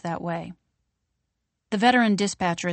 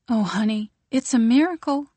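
overjoyed; 5 semitones higher, 3 dB louder than usual. Acted. Mother overjoyed at hospital news.

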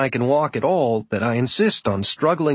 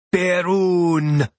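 thrumming bass; 6 semitones higher than usual. Acted. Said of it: "His voice is a thrumming bass".

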